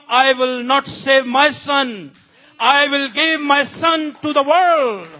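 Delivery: loud, slow, solemn declaration; God calling Abraham. Acted. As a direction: proclaim it from on high, drawing out the words. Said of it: "the voice of the Lord came there".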